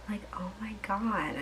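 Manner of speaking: whispered, exasperated oh my God; under her breath. Real, not acted. Telling viewers about the annoying date, exasperated whisper. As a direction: mutter it to yourself, fed up.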